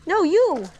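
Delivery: high, loud shout across the water; calling from far away. Real, not acted. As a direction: yell to someone far off. Shouts at Lee from a distance.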